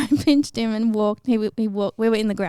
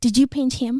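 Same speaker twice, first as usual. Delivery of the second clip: angry, cross, accusing tone; 3 semitones higher than usual. Retelling what an angry teacher asked: imitating an angry teacher. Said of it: "She's really angry".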